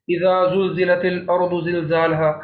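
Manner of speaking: tongue to front teeth for اذا, draw it out; careful dhal articulation. Shown as a demonstration. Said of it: "تلفظ کا دھیان رکھنا ہے". (اذا میں ذال زبان دانتوں سے لگا کر پڑھیں)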